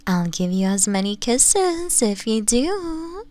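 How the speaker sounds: ordinary talk, nothing marked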